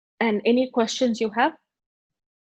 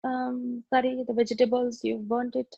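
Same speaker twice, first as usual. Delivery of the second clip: complaining husband; 2 semitones higher than usual. Retold or imitated. Husband scolding wife over burnt curry, mild grumble. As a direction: drag out the complaint. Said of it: "My husband would say".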